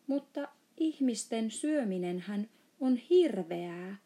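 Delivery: shouting. Acted. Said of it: "huusi Sohvi".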